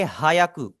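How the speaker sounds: हायाकू with a full "haa" before "yaku"; common mispronunciation. Shown as a demonstration. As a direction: demonstrate the mistake हायाकू as ha-ya-ku. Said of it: "वो इसे गलत pronounce करेंगे". (हायाकू का गलत उच्चारण, 'हा' अलग से)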